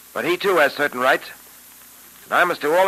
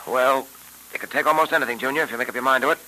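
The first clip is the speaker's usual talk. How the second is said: put-on old radio show. Old-time radio drama episode.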